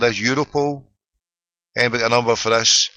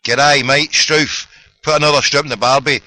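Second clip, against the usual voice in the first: louder, lightly put-on Australian accent; mock Australian; 3 semitones higher, 6 dB louder than usual. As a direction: call out in a hammed-up Australian accent. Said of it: "I need an Australian Tim".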